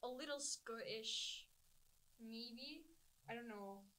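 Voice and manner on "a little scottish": hint of a Scottish lilt; slightly Scottish accent. Shown as a demonstration. Friend says she sounds Scottish, slight Scottish accent. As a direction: drift lightly into Scottish. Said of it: "You sound Scottish".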